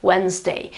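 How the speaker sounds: "Wednesday" said as wenz-day; silent D. Shown as a demonstration. Teacher joins the syllables for learners, silent D. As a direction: leave the D out of "Wednesday". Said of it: "So Wednes, and then, of course, day".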